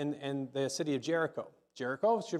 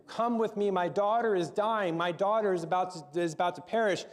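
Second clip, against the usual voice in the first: mildly urgent, raised-pitch plea; pleading; 3 semitones higher than usual. Acted. Father begging Jesus to save his dying daughter, pleading. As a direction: plead like a desperate parent, lightly acted. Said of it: "begging, pleading with him".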